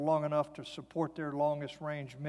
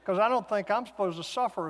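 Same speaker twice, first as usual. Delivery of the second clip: whining prayer; 4 semitones higher, 5 dB louder than usual. Retold or imitated. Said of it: "you ever done that?".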